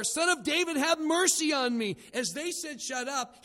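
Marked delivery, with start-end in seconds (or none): 0.0-2.0 high, loud shouted plea; crying out louder. Retold or imitated. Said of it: "kept crying out all the more". 2.8-3.4 high-pitched mock rebuke; stern hushing. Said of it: "sternly telling him to be quiet".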